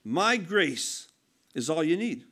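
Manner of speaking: low, soft and calm; God's gentle voice. Retold or imitated. God answering Paul's plea, low and gentle. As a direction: reassure him quietly. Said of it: "he said one thing".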